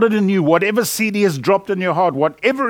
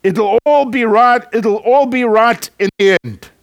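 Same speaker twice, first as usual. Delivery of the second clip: hotel manager quote; 3 semitones higher than usual. Retold or imitated. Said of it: "he says this".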